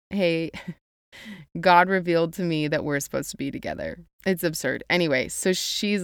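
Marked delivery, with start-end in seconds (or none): 0.1-4.0 quick, lightly voiced guy, laughing through it; mock a guy who claims God chose you; mock pushy guy. Mocking a man who says God wants them together, lightly voiced, laughing. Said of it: "for a guy to be like".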